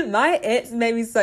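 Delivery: a burp breaking into the words. Real, not acted. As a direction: talk through a small burp. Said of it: "excuse me, I had to burp".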